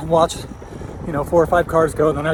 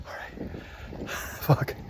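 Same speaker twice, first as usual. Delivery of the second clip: breathless, unvoiced gasps between pedal strokes; winded on the climb; 11 dB quieter, much slower than usual. Real, not acted. Rider struggling up a steep hill, gasping the words. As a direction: gasp it out, barely any voice, mid-climb.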